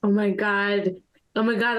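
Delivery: high squeaky character voice. Acted. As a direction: squeak it out like a tiny critter.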